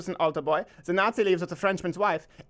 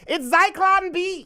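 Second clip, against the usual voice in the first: slow punchline; 10 semitones higher, much slower than usual. Acted. Punchline drawn out slowly.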